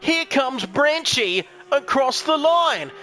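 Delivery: drawn-out play-by-play with a stretched "wowee"; excited race commentary. Real, not acted. Commentator calls Branchy across the line, excited race commentary. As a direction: ring the car home phrase by phrase.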